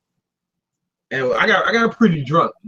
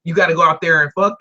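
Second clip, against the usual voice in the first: streetwise dad character. Retold or imitated. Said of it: "that's the character I've created".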